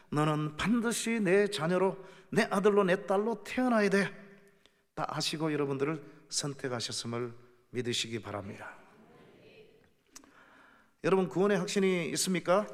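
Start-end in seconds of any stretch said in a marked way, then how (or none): 0.1-4.1 put-on rising, louder call of God claiming a child; God's voice. Preacher voicing God, calling a believer his own child, rising firmly. 11.0-12.7 구원의 stressed, raised and louder with a rising end; loud question. Real, not acted. Preacher challenging the congregation about assurance of salvation, loud rising question.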